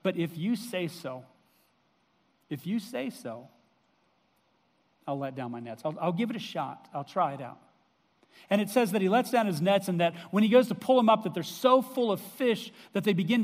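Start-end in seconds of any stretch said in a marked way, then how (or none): 0.0-7.6 softer, resigned shrug of a reply; a tired fisherman's grudging yes; reluctant giving in. Retold or imitated. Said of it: "I love his change of tone".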